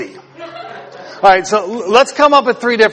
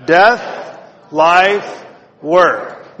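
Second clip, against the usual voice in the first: Death, life, work called out for the crowd to echo; call-and-response; much slower than usual. Shown as a demonstration. Pastor leading the congregation in unison, calling each word out. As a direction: lead the crowd through the words. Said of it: "can you all say that together".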